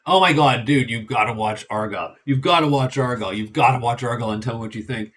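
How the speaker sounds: a light mock of a pushy friend, speeding up; pestering insistence. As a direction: rattle it off, nagging. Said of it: "badgered me... he kept poking me".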